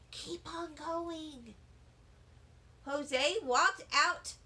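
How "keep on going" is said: slow, soft backstage whisper. A narrator's reading. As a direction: hush it to the kids from the wings. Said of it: "Mister Scary whispered".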